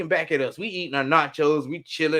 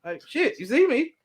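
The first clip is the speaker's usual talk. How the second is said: much higher, louder angry demand; yelled challenge; 11 semitones higher, 4 dB louder than usual. Retold or imitated. To a man staring at the hospital, yelled challenge. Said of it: "I asked him what the fuck it is".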